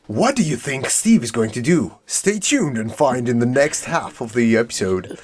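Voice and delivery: teasing YouTuber cliffhanger voice; clickbait video narrator. Pretend. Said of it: "pause the frame and be like".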